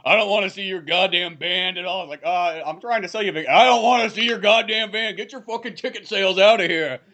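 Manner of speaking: lightly voiced angry rocker; mock aggressive. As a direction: snap at the salesman to get lost. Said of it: "This guy gets all aggressive over it".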